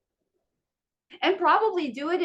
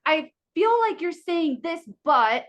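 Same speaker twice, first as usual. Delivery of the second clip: customer service voice; 4 semitones higher, slower than usual. Shown as a demonstration. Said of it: "use the customer service voice".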